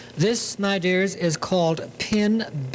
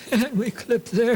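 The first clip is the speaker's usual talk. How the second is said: giggling through the repeat, pitched up; laughing; 5 semitones higher than usual. Real, not acted. Sewing teacher laughing at her own clipping repeats, giggly. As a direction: laugh as you say the line again, a bit higher.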